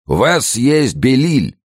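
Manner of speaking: high, slow exclamation; crying out. A narrator's reading. Abbot urging a refuge on Fouquet, crying out. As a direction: call it out, stretching the words. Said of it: "крикнул аббат Фуке".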